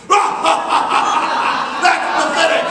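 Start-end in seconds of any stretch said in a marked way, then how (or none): 0.1-1.2 pirate laugh demo. Shown as a demonstration. Performer leading children in a pirate laugh, hammed-up. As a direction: show the kids how to laugh. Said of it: "laugh with me".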